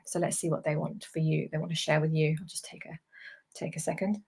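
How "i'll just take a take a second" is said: hushed whisper, almost breathless. Real, not acted. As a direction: drop to a whisper while tuning in. Pausing to tune in quietly.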